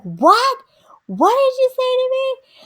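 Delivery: high-pitched, incredulous demand; mock-furious mother, pitch shooting up; imitating outraged mom. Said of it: "she went nuts on her".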